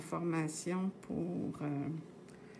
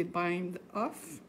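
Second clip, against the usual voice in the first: French-accented English. Shown as a demonstration. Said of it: "excusez mon accent".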